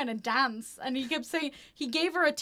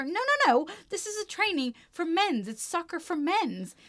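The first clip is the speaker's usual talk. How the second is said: higher-pitched mock objection; acted arguing; 6 semitones higher than usual. Trainer turning a girl away from trials, mildly argumentative. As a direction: object insistently, as if retelling an argument. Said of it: "while arguing with her".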